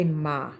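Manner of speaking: "ma," the word my cut down to a plain ah. Shown as a demonstration. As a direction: say "ma" with an open vowel and no glide. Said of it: "I know I say".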